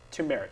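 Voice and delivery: turmeric said "too-MERR-ik", no first R; mispronounced turmeric. Real, not acted. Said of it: "I'm probably going to do so right now".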